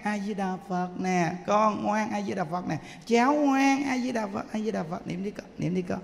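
put-on calm the baby with a gentle chant; gentle soothing of a crying grandchild; soothing a child. Shown as a demonstration. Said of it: "mình mà nghe".

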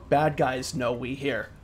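slow robotic text-to-speech. Acted. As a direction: read it like a speech synth. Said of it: "kind of a more robotic voice".

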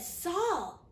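a hint of a divine voice, slow and pleading; voice from the light. The voice from the light asks Saul, slow reproach. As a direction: question him slowly, drawing out the words.

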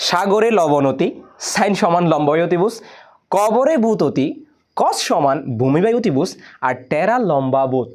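slow, measured rhyme for memorising; rhythmic mnemonic recitation. Shown as a demonstration. পুরো ছড়া ছন্দে আবৃত্তি. (ছন্দে ছন্দে ধীরে আবৃত্তি)

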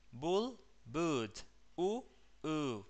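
"Bull" short, then "boot" with a long "oo". Shown as a demonstration. Teacher contrasting two vowels for the class. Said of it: "la U larga".

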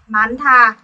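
"mán thà" with n, then breathy th; slow, emphatic "mán thà"; merged aspirated t. Shown as a demonstration. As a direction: model "mán thà" slowly, puff of air on the th. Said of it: "biến ti cứt thành thiết".

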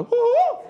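high loud whoop; joyful whoop. Retold or imitated. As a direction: cheer at the top of your voice. Old man's cheer.

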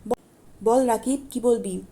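grumbling at being bothered; curt and put-out; irritated. Acted. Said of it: "সে বিরক্ত".

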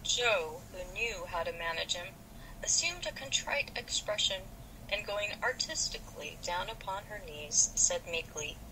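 lively read-aloud of a novel with light voices; story narration. Acted.

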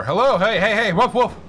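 calling dogs. Pretend.

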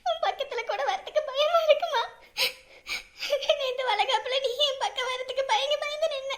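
softly crying lament; tearful. Acted. Daughter grieving her mother, soft tearful lament. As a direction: grieve quietly over her.

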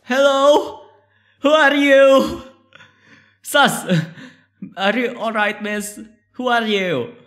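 high voice, questioning; timid in-game heroine. Acted. Calls to an unconscious stranger in game.

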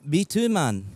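put-on Scottish, stretched vowels; faked Scottish accent; Scottish accent attempt. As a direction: answer in an amateur Scottish accent. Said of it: "I can't do a Scottish accent".

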